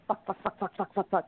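rapid-fire string of identical curses, like quacking; retold cursing in quick, even quacks; duck-like swearing. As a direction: repeat it evenly like a duck on a pond. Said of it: "you sounded like a duck on a pond".

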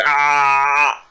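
imitated chick's begging "ah"; drawn-out "ah" like a mouth held open for food. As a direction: chick waiting to be fed, mock open-mouthed "ah". Chick opens up to be fed.

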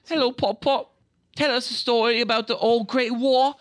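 high, loud kiddie greeting; little boy. Retold or imitated. Little Sam greeting his grandpa, high and loud. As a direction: chirp it like an eager child.

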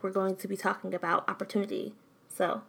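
talking between hot sips of tea; words around a careful sip; sipping tea. Real, not acted. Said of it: "excuse me, I'm sipping my tea".

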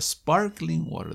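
slow, careful sparkling water; sparkling water, each word drawn out; said slowly. Shown as a demonstration. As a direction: spell it out slowly for learners. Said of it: "déjame decirlo despacio".

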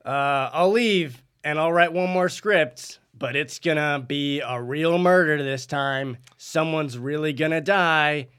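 slow, deliberate and menacing; ominous threat. Acted. Fired writer threatens his producer, slow and ominous. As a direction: let each threat sink in slowly. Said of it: "It sounded a bit ominous".

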